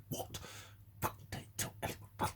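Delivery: hushed, secretive whisper; imitating a furtive whisper; whispered quote. Quoting someone's hushed warning.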